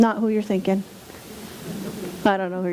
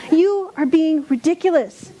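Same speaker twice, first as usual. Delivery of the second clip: upset lecture; 6 semitones higher than usual. Retold or imitated. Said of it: "And I get so upset".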